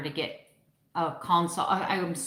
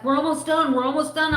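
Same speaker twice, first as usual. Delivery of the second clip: high, louder mock dentist brushing her off; mock dismissive dentist; imitating the dentist; 9 semitones higher, 5 dB louder, faster than usual. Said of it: "And he's like".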